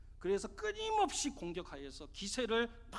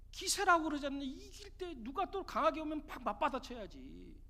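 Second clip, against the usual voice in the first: retold anger, mildly voiced; 3 semitones higher than usual. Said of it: "막 화를 내는 거예요".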